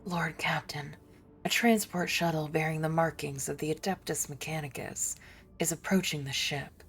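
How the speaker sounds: soft conspiratorial whisper; hushed secret warning; whispered report. Acted. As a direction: whisper it like a confiding aide. Reads whispering NPC aloud.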